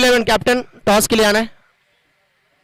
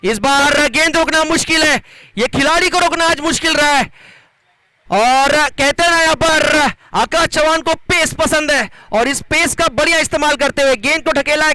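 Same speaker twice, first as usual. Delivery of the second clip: excited; 6 semitones higher than usual. Real, not acted. Commentator thrilled by a boundary.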